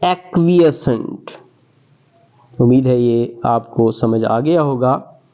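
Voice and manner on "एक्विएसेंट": एक्विएसेंट spelled out syllable by syllable, ak-wee-e-sent; careful pronunciation. Shown as a demonstration. Teacher asking students to listen closely, careful modelling. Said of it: "ये लफ्ज जरा ध्यान से सुनिएगा".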